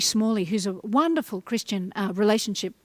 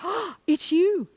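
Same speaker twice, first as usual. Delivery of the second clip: delighted echo; 7 semitones higher, slower than usual. Shown as a demonstration. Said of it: "the other person go".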